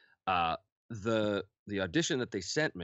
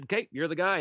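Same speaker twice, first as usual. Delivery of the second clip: quoting casting; 9 semitones higher, 4 dB louder than usual. Retold or imitated. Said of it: "they said".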